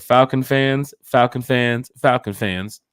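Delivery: loud repeated call to the fans; rally the Falcon fans, slow and loud. Real, not acted. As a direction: hype announcer call.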